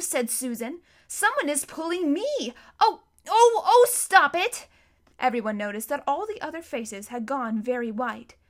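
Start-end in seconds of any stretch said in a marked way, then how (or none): 1.1-4.7 high, loud, panicky protest; rising distress, ending in a drawn-out shout; alarmed cry. A narrator's reading. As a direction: cry out as unseen hands pull you. Susan cries out while being pulled.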